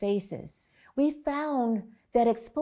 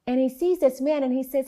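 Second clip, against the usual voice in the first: ordinary delivery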